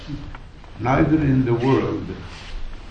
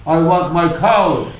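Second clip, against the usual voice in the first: mildly raised mock shout; retold shouting; 3 semitones higher than usual. German outside the Sultan's tent demanding his cows, mock shouting. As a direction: call it out insistently, only half shouting. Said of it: "some German screaming and shouting".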